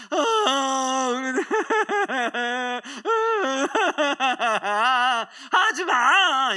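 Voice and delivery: half-laughing, half-crying high voice. Retold or imitated. Imitating a child crying and laughing at once. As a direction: laugh through tears, then wail stop it.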